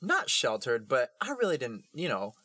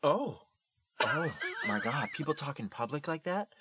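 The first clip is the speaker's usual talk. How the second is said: put-on a light touch of teen wonder; wide-eyed, innocent disbelief; naive amazement; 4 semitones higher than usual. Young self amazed by public swearing, mild wonder. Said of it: "little sixteen ... me was like".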